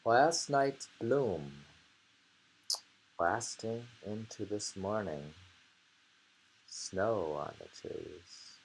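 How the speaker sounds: slow, measured poem reading; reading a haiku. Shown as a demonstration. Reading a haiku aloud to a friend, slow and measured. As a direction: read the haiku slowly, savouring each image. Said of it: "The bloom lasted into the morning".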